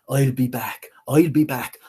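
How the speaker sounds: rising menacing threat; angry threat. Acted. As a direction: growl it as a vow of revenge. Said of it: "Death again was angry and said".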